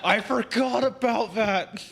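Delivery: loud, high, slow through laughter; cracking up at a sudden memory; laughing. Real, not acted. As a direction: burst out with it, laughing hard. Laughing at a recalled quote.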